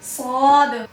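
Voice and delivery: सौद with a hissing s, said slowly; teacher demonstrating a letter; whistled heavy s. Shown as a demonstration. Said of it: "सीटी की आवाज आनी चाहिए".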